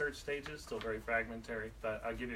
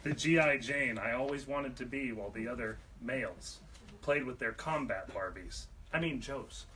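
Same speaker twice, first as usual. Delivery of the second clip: poetry reading; 6 dB louder than usual. Acted. Reads own poem aloud.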